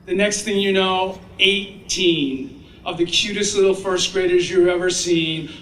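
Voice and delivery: ordinary talk, nothing marked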